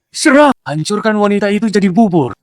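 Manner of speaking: shouted command. Acted. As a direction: yell attack at him. Order repeated after fighter hesitates.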